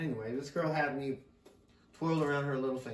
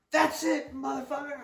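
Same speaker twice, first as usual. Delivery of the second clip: much higher shrill mock mom outburst; mother ending the fight, imitated much higher; mom yelling; 13 semitones higher, 4 dB louder than usual. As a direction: play the furious mother, cranked up high. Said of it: "my mom, your grandma, says".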